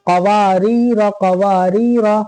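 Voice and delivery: "कवारीरा" slowly through waa and rii, short last ra; quick final syllable. Shown as a demonstration. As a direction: keep only the end of "कवारीरा" short. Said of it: "इस तरह".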